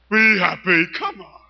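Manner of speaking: loud, cheerful "Be happy" shouted out; happy demo. Shown as a demonstration. Poet showing the crowd a properly happy, loud delivery. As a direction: show them how to sound happy. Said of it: "if you sounded a bit fucking happy".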